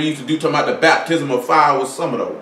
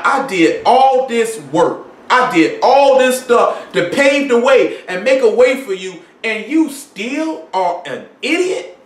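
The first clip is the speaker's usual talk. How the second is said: mock exasperation; 5 semitones higher, slower than usual. Preacher voicing Jesus' frustration.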